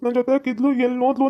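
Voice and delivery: mild mock crying; lightly acted tearful pleading; acted tearful complaint. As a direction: explain the loss in a weepy, upset whine. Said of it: "ಅದಕ್ಕೆ ಬೇಜಾರಾಗಿ ಅಳ್ತವ್ನಿ".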